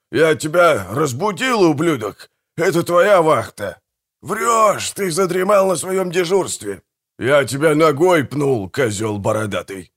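high, indignant bickering; heated quarrel. A narrator's reading. Brothers quarrel over who slept on watch, indignant. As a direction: argue hotly, pitch jumping up on each accusation.

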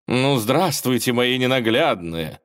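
slow, sweet stage host greeting; velvety host voice. Acted. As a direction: greet the audience like a show host. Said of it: "бархатный голос ведущей".

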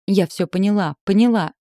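tearful shouting. A narrator's reading. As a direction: insist loudly, at the end of patience. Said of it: "кричала, не замечая слёз".

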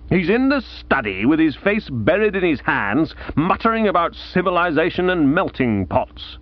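a hint of a gloomy older aunt; aunt breaking grim news, lightly voiced. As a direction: deliver bad news with dry gloom. Aunt Dahlia voiced in narration.

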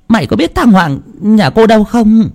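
high, urgent question; frantic mother asking. A narrator's reading. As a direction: demand an answer from the boy. Mother demanding.

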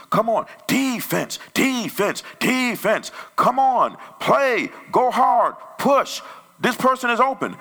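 high, loud, urgent chant from the stands; sideline parent cheering. Acted. Parent edging on the team at a game, high shouted cheering. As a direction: yell them on, punching each short command.

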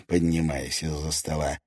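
plain reading voice

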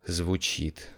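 breath held, very soft; softly, holding the breath; hushed whisper. A narrator's reading. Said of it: "затаив дыхание, прошептал Джакомо".

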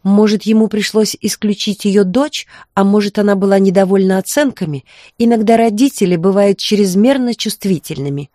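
high falsetto mimicking his mother; falsetto imitating mother. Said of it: "Он заговорил фальцетом, явно подражая матери".

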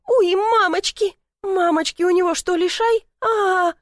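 high, loud frightened shrieking; panicked squeal. A narrator's reading. Lena shrieks in fright at the cat.

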